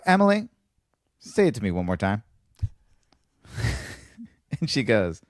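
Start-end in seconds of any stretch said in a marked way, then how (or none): 0.0-2.2 mock exasperated call. Insisting to Emily.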